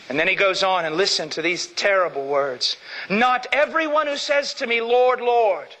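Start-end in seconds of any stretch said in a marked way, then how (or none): 3.1-5.8 raised solemn quote. Acted.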